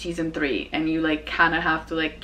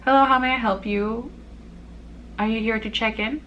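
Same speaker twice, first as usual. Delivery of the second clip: a lightly raised polite front-desk greeting; customer service voice; 4 semitones higher than usual. Shown as a demonstration. Hotel clerk checking in a guest, in a lightly polite customer voice. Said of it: "My voice doesn't change much".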